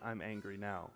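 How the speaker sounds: soft, low admission of anger; gentle God. Acted. God speaking tenderly to us today, soft and low. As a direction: say it softly, tenderly.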